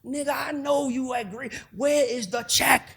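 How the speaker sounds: slow, high, menacing mom voice; angry mom. Retold or imitated. Mom demanding her son's first paycheck, slow and menacing. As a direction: drag out the demand for the check.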